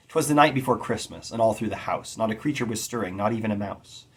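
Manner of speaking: lilting three-beat rhythm, stress on night and house; anapestic recitation. Shown as a demonstration. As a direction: recite with a rocking da-da-DUM. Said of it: "using is a three-syllable foot".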